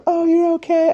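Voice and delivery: high, light relieved voice; a lightly voiced relieved coworker; mock relieved girl. She looks relieved he is okay, lightly voiced. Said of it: "She gave me, like, the".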